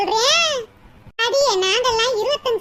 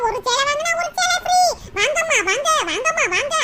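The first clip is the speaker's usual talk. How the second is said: mock hawker announcement; 2 semitones higher than usual. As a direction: imitate the shop's loudspeaker pitch. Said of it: "நீங்க தானே announcement பண்ணீங்க".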